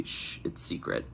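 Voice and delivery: hushed, breathy secret whisper; mock whisper. Quoted line begins with shh.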